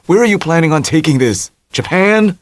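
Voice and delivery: Tommy doubting Dell's plan; incredulous Tommy. A narrator's reading. Tommy voiced.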